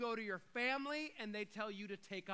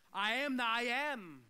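emphatic preaching; 3 semitones higher, 9 dB louder than usual. Real, not acted. Preaching on the divine name.

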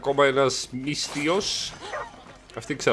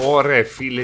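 "ωρε φίλε" said louder and sharper; 5 dB louder than usual. Real, not acted. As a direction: punch out "ωρε φίλε" with more force.

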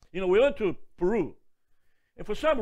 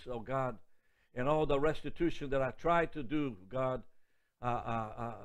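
closing prayer; 3 semitones lower than usual. Acted.

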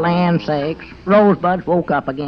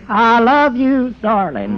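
mock whispered love line; 4 semitones higher, 4 dB louder, slower than usual. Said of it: "whispered hoarsely".

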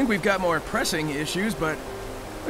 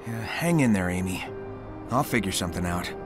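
much lower, gently comforting voice; subdued reassurance; 11 semitones lower, 3 dB quieter than usual. Acted. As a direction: reassure a friend in a low, sober voice. Comforting a friend in trouble.

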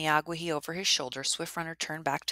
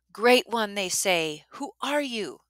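excited greeting; 5 semitones higher, 5 dB louder, slower than usual. A narrator's reading. Joyful people greet hero.

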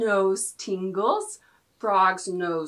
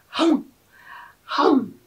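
hungry alligator; 3 semitones higher, 3 dB louder than usual. Pretend. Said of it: "I'm an alligator".

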